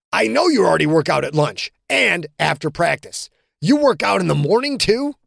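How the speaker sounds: rising disbelief, pitch climbing high on too; can't believe what he hears; incredulous teammate. Acted. John amazed at Quentin's workouts, rising disbelief.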